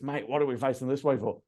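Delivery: imitated broad Australian accent; thick Australian accent. Guy questioning the other lift rider, thick Australian accent. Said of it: "a real thick Australian accent".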